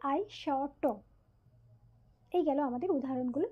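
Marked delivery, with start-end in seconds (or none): 0.1-0.8 আই শ ট in pieces, ai-shô-ṭô; careful demonstration of আই শ ট, piece by piece; syllable by syllable. Shown as a demonstration. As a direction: sound out আই শ ট with open vowels on shô and ṭô. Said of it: "যেভাবে আমরা উচ্চারণ করি".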